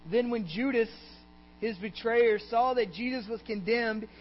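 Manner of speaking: high, projected pulpit reading; scripture reading. A narrator's reading. Preacher reads of Judas to congregation, projected scripture reading.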